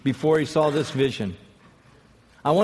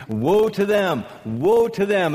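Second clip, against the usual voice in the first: prophet's denunciation; 4 semitones higher, slower than usual. Retold or imitated.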